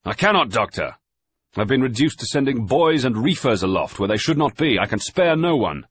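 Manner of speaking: loud, high voices against the wind; shouting over the gale. A narrator's reading. Surgeon and master arguing on deck in a gale, shouting. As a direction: keep yelling to be heard in the storm.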